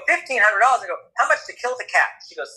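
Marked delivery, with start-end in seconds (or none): 0.1-0.8 high, shocked repeat of the price; incredulous echo. Retold or imitated. Customer echoing the vet's price, high incredulous question. 1.2-2.2 high, quick-witted comeback question; blunt haggling. Retold or imitated. Customer asking the vet for alternatives, high blunt haggling.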